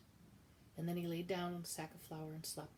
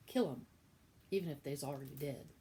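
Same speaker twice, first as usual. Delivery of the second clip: Cook's voice; 3 semitones lower, 4 dB louder than usual. Acted. Chapter epigraph in Cook's voice.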